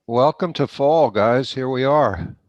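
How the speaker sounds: congested, blocked-nose voice; stuffy nose. Real, not acted. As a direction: talk through a stuffy head cold. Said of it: "You sound a little bit stuffy too".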